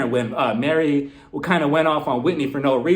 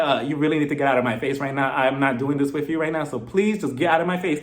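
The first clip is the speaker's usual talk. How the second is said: lower, evenly voiced polite refusal; calm and respectful; 4 semitones lower than usual. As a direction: imitate someone firmly asking, without heat. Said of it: "She said it calmly and respectfully".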